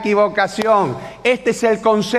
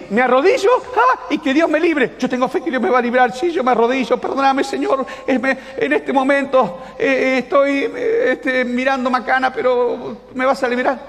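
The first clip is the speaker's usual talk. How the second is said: mock pleading prayer; 5 semitones higher than usual. Acting a muddled plea while kneeling.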